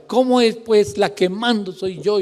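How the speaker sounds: high, loud, indignant retort; mock quarrelling wife. Preacher voicing his wife answering back, high mock outrage. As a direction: fire back as the affronted wife. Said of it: "Y ella".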